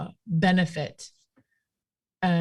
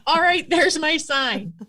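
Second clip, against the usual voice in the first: laughing acceptance; 4 semitones higher than usual. Retold or imitated. Seeing the Black Angus TV special as her sign, laughing. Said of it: "I'm like".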